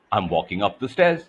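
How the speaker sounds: rising up the stairs. Shown as a demonstration. Coach showing melody, pitch climbing. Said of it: "for example, I could say".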